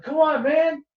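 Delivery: high-pitched mock plea; pleading. Luke begging a reluctant Han, pleading. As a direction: coax him, pitch jumping up.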